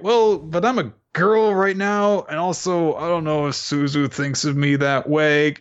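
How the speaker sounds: put-on high girlish voice. To the rival about Suzu, a high nervous girl voice.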